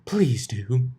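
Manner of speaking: whispered, whiny plea; whined. A narrator's reading. Rarity whines to Twilight for help. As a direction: whine it out breathlessly. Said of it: "she whined".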